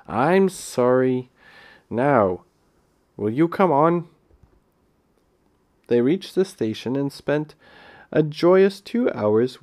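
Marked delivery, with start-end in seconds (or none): 0.1-4.1 impatient. Acted. Peter to Phyllis, eager to get moving, mildly impatient. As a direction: hurry her along, mildly exasperated. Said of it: "said Peter impatiently".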